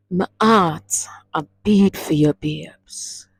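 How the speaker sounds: "babes" breathed out almost whispered; tender, passionate Patois line; with love and passion. Shown as a demonstration. Teacher showing the class how to say it to a lover, tender. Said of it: "say it with that love and that passion".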